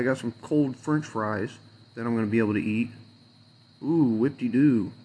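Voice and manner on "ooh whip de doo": slow, dry mock cheer; sarcastic whoop. Real, not acted. Griping about only cold fries to eat, slow sarcastic cheer. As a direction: fake delight, dripping sarcasm.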